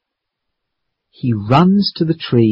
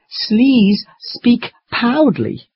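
monster speaking English; 9 semitones higher, much slower than usual. Acted. Monster garbles a request to speak up.

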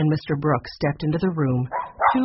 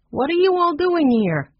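sharp, much higher and louder demand; 12 semitones higher, 5 dB louder than usual. A narrator's reading. Shopkeeper confronting the unexpected crowd, high indignant demand. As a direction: confront the intruders, full indignation. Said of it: "she demanded".

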